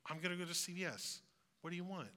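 soft, gentle question; tender. Retold or imitated. Parent gently asking a sick kid what to bring from CVS. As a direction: ask it softly like to a sick child. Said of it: "a very tender tone".

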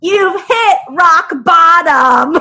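slow, high, loud with laughter; laughing punchline. Acted. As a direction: deliver the punchline cracking up.

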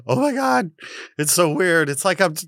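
retold amazement. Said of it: "she literally started laughing".

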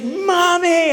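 high wail for mommy; imitating a child calling for mom; wailing toddler. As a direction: cry it like a hurt child. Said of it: "And she's like".

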